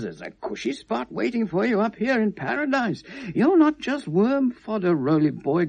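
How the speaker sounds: a light, loose take on God calling him love; lightly voiced God reassuring a dying man; God's voice. Rolly imagines God comforting him, lightly voiced. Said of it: "God would say".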